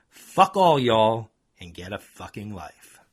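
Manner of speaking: mock parting yell; exclaiming. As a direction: spit it out as he drives off. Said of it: "I heard him exclaim".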